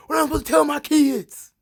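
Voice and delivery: high, loud, fast hammed-up despair; mock despairing plea. Roman agonizing over his kids, high hammed-up despair. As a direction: wail it like a tragic hero. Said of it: "Roman's like".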